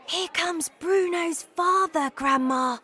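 put-on high, small mouse-boy warning; whispering mouse. A narrator's reading. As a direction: warn Grandma in a high-pitched, voiced whisper. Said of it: "I whispered".

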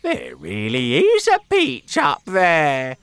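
high, loud amazed voice; excited cry. Acted. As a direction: cry out in wonder. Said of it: "cried Aunt Sponge".

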